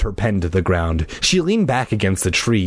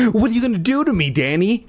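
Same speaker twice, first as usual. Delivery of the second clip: fast, high panicked plea; scared girl begging; frightened; 12 semitones higher, faster than usual. Acted. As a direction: rush it out in fear. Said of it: "frightened questions".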